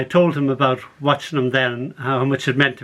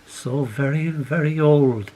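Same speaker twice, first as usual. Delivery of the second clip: gentle tease; 2 semitones lower, slower than usual. Acted. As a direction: let it linger fondly. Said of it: "it smiled".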